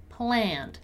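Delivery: "Planned" as one syllable, no E sound before the D; silent E. Shown as a demonstration. Teacher models the word planned for students, silent E. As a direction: say "Planned" as pland, ending in ND. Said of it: "we don't pronounce the letter E".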